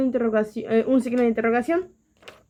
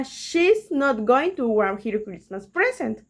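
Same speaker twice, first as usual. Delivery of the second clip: slow English example read; slower than usual. Shown as a demonstration. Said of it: "Sería".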